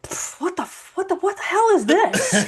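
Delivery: high, laughing outburst at a wrong coffee; mock disgusted surprise. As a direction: spit out the line in shocked disgust. Stepdad tastes cream coffee.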